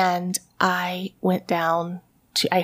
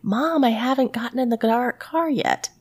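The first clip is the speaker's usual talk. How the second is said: lightly imitated kid calling out to mom; a hint of a child calling through the house; daughter calling from upstairs; 3 semitones higher than usual. Daughter answers mom from upstairs, lightly mimicked calling voice. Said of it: "I hear upstairs her voice saying".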